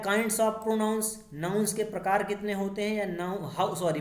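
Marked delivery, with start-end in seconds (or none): 0.0-1.0 slow reading. Shown as a demonstration. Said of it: "next question आता है".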